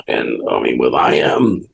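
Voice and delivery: talking through hiccups; hiccuping between words. Real, not acted. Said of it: "Excuse me for the hiccups".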